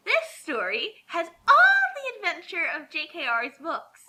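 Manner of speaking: mock-sweet, dim concerned mother; dumb mom voice. Reading the fic description as a silly mother. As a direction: read it like a clueless church mom. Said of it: "try to just sound extremely stupid".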